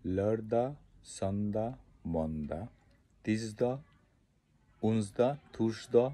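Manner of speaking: লরদা সন্দা মন্দা তিসদা উন্সদা থুসদা, each with a clipped -দা ending; colloquial weekday list. Shown as a demonstration. Teacher repeating the short spoken weekday names. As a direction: recite the short spoken forms one by one. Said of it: "তো আমি আবার বলবো".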